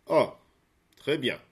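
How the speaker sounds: Zeus jumps at the news; eager Zeus. A narrator's reading. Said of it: "répondit Zeus avec empressement".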